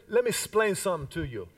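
quick catchphrase impression with a light Cuban accent; Ricky Ricardo. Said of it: "as Ricky Ricardo used to say".

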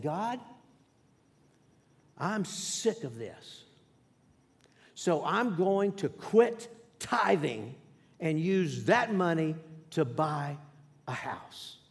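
slow, defiant complaint to God; retelling a defiant vow to God; disrespectful to God. Retold or imitated. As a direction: drag it out like a sulky ultimatum. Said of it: "very disrespectful conversation with God".

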